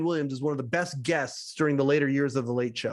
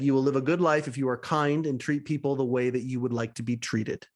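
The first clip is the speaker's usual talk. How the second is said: low, gently sincere advice; earnest, aw-shucks; 3 semitones lower than usual. Retold or imitated. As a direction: lower your voice and offer homespun wisdom. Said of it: "Switching to the earnest, "Aw, shucks".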